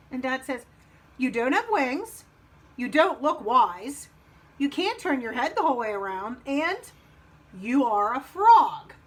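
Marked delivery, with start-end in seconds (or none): 1.2-8.9 slow, spaced-out list of reasons; emphatic frog dad. Acted. Dad tells Frog why not, emphatic. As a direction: land the final point loud and slow.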